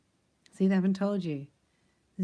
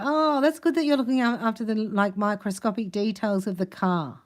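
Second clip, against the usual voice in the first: mock praise; 2 semitones higher than usual. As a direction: gush with fake approval about the details. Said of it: "So you go".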